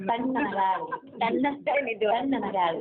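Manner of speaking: low, slow, soothing urging; retold low-voiced consoling; calming father. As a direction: settle her down, slowly and low. Father voiced calming the crying mother.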